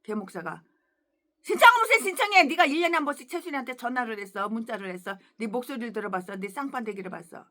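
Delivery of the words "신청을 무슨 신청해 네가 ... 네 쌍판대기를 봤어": fast scornful reply, loud at the start; retold angry retort. Preacher retorting to the freeloading pastor, mock angry. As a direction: snap back at the freeloader quickly. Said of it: "그러더라고".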